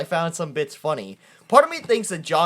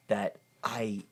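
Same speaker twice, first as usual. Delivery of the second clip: sheepish confession; 9 semitones lower, 8 dB quieter than usual. Retold or imitated. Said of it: "listen, hey".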